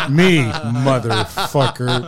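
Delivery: punchline slowed and laughed through; chuckling out the punchline slowly; laughing punchline. Retold or imitated. Punchline of a retold tweet.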